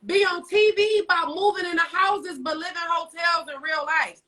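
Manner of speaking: shouting the rant out; ranting shout about broke TV stars; heated rant. Real, not acted.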